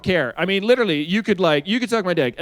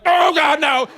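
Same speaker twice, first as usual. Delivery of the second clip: high, loud mock cry of pain; mock yelp; 9 semitones higher, 4 dB louder, slower than usual. Girlfriend stopping him mid-act, mock pained yelp. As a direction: yelp it like it suddenly hurt. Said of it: "she was like".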